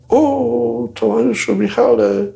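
high, laughing reproach of the boss; hammed-up high chief, slow at the end; mock chiding chief. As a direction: catch them out with a teasing laugh. Chief catches the boy with vodka.

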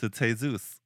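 "Jesus" as hay-ZOOS; Spanish pronunciation. Shown as a demonstration. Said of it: "if it's Jesus".

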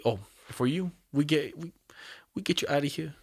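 retelling in an imitated Vietnamese accent; halting mock Vietnamese accent. Driving instructor pitching a quick course, imitated Vietnamese accent. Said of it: "They had that accent just like that?".

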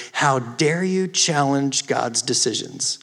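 slow, measured imitation of a stern mom; cold stern rebuke. Mom confronting her frustrated son about God, imitated coldly and sternly. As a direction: draw out each word as a controlled reproach. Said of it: "looked me in the eye with a cold, dead stare".

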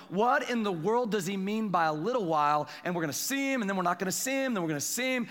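animated mock bafflement; lightly exaggerated retold confusion; puzzled disciples. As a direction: act out puzzled disciples asking each other. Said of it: "Jesus understands that they're puzzled".

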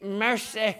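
"Mercy" said with a Southern sigh; exasperated Southern "Mercy"; drawn-out Southern "Mercy". Shown as a demonstration. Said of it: "You have to say it".

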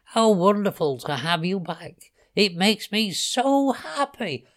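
tender happiness, slowing as it climbs; loving delight. A narrator's reading. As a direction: gush over a beloved pet. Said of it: "stroking him lovingly".

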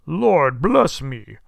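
loud, slow, breath-taken exclamation; astounded cry. A narrator's reading. Old gentleman hears Scrooge's whispered offer, astounded. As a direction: cry out as if winded by surprise. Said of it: "cried the old gentleman, as if his breath were taken away".

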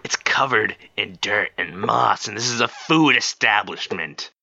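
exasperated. Acted. Bartender argues slowly.

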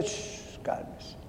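soft unvoiced "shh, cálmese"; a pastor hushing a worried listener in a whisper. Shown as a demonstration. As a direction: hush them like a frightened child.

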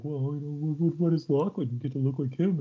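imitated daughter's protest; complaining daughter. Daughter complains, voiced by parent.

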